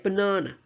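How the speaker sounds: baNAna, weak first and last vowels; "Banana" with only the middle syllable strong; schwa syllables. Shown as a demonstration. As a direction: reduce both outer vowels of "Banana" to "uh". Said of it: "first and last syllables are schwa".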